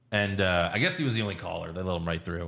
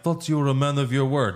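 higher, lightly voiced gangster; a hint of an accusing Russian heavy; Russian guy; 4 semitones higher than usual. Russian gangster challenging the villain, lightly acted and higher. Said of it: "The Russian guy's like".

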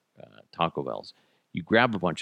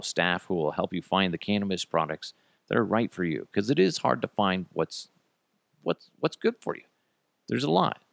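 upbeat sponsor read. Acted. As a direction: sell it like a host ad. Reads a sponsor ad.

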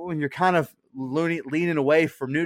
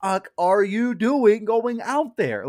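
mock yell at TV; 5 semitones higher, much slower than usual. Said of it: "I'm like".

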